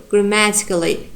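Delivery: "grammatically" with strong second syllable MA; stress on MA. Shown as a demonstration. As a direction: lean on MA in "grammatically". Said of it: "ma gives our strong stress".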